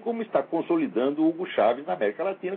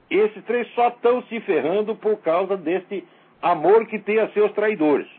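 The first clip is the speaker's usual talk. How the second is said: slow and weighty, higher and louder, each word pressed; slow emphatic indignation; 4 semitones higher, 5 dB louder, slower than usual. Real, not acted. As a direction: drive the outrage home slowly. Indignant rant. (ênfase lenta e indignada)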